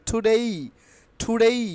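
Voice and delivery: টুডেই with puffed T, rising final glide; upward-sounding ending. Shown as a demonstration. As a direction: lift the end of টুডেই. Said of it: "একটু upward sound হবে".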